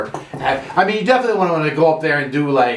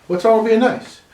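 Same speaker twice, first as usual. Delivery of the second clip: mock exasperation; 7 semitones higher than usual. Repeated, rising.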